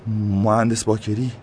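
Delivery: name him slowly, stressing مهندس; awed naming of the engineer; pointing him out. A narrator's reading. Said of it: "نوری مهدی را نشان داد و گفت".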